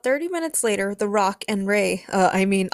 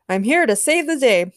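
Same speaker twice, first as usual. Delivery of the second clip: raised, louder heroic proclamation; announcing; 4 semitones higher, 5 dB louder than usual. A narrator's reading. James arrives at the rooftop scene, announcing. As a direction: announce your grand arrival. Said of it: "he announced".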